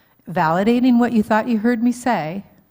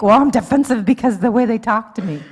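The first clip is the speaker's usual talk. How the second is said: defensive; 2 semitones higher, 6 dB louder, faster than usual. Acted. Spouse blaming partner, acted quote.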